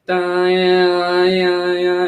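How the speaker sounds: high, sustained note with a wavering "da-ya-ya"; imitating string tuning. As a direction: sing out a violinist's tuning drone, held high. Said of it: "they sort of do that".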